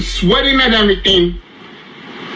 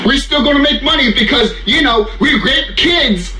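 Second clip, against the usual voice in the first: mock studio exec; 3 semitones higher than usual. Voicing the studio mockingly.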